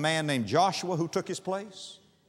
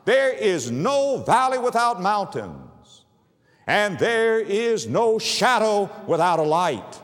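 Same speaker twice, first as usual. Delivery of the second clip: preaching; 4 dB louder than usual. Acted. Preacher urging the hurting to look to the light, full-force preaching. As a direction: preach it out to the congregation.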